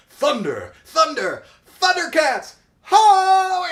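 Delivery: Lion-O. Retold or imitated. Mimicking a beefy cartoon hero's battle call, high rising shout. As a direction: build each shout to a huge high yell. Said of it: "get so high up in their register".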